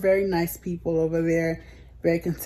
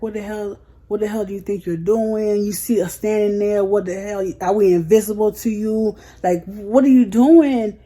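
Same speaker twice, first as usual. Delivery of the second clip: rising indignant snap, louder by the end; snapping at him; 2 semitones higher, 3 dB louder than usual. Retold or imitated. Retelling to viewers how she confronted the man who cut in line, an indignant snap growing louder. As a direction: call him out sharply for cutting the line. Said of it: "I just snapped".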